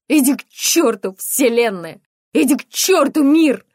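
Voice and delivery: very loud high furious curse; raging scream. Acted. Mother screaming curses at the world. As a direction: scream it at the ceiling.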